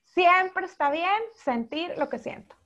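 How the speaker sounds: gentle self-affirmation, slowed down. Shown as a demonstration. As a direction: let each word land, hand on heart. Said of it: "y que digan".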